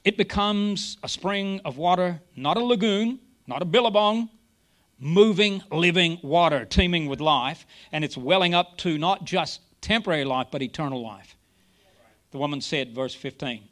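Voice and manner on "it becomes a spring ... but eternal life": lightly acted Jesus proclaiming living water; lightly voiced Jesus. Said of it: "he says this".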